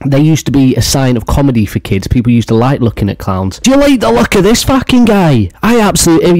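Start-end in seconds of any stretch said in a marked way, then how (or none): 3.6-6.4 high, incredulous yelp; high-pitched outburst. Pretend. Host reacting to the clown's look, high-pitched outburst. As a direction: shoot up high in mock outrage.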